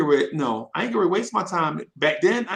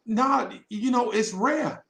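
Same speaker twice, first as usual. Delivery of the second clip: retold girls; 6 semitones higher, slower than usual. Girls' answer in retold exchange.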